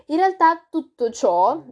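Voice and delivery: talking while chewing; words round a bite of cake; mouth full. Real, not acted. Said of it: "scusate, sto mangiando il ciambellone".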